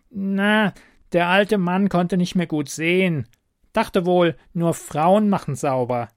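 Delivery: high, loud goblin explaining. A narrator's reading. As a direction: shrug it off like a cheeky goblin.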